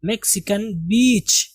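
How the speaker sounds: "मैक्सिकन बीच" said clearly, each sound careful; correct reading. Shown as a demonstration. Teacher correcting students: "मैक्सिकन बीच" said carefully. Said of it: "मैक्सिकन नहीं".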